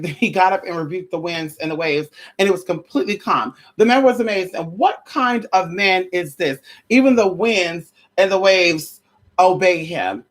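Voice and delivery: measured preacher read-aloud; scripture reading. Acted. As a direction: read it like a sermon text. Reads scripture in preacher style.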